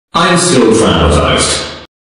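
drawn-out dramatic complaint; loud slow wail. Acted. Overdramatic reaction to fanfics.

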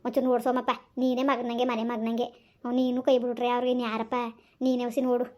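a hint of an imploring elder; pleading elder. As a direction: plead low, as to a son. Elder pleads with Somappa to search.

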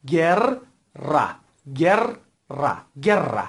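گر and را said apart, syllable by syllable; teacher splits guerra into syllables; syllable drill. Shown as a demonstration. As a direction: break the word into گر and را.

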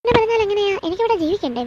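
exasperated protest. Acted. Wife to husband about the fridge, exasperated outburst. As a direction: demand it in frustration.

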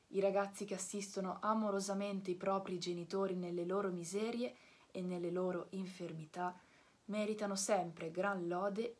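gently forgiving, as in a dream; tender fairy. Acted. (fata dolce e sommessa, lenta)

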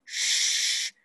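"シュッ" as a long hush without voice; hollow-mouthed sh. Shown as a demonstration. Teacher showing the mouth shape, "シュッ" as a sustained sh. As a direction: make a cavity in the mouth for "シュッ". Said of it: "口に空洞ができる感じ".

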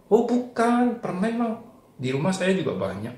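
high, brightly voiced boy; Rudi's high child voice. Storyteller voicing Rudi to children, high child voice.

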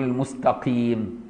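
المستقيم slow with a light ق; soft qaf. Shown as a demonstration. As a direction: keep ق in المستقيم light but still ق. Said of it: "تبقى قاف رقيقة مش كاف".

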